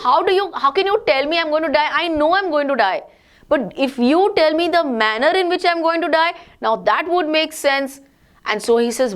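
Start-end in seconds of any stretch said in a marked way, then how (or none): 0.1-8.0 higher, lightly voiced baby prince; a hint of a squeaky little child; teacher retelling the infant prince's words, lightly squeaky. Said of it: "He spoke these words in his little squeaky".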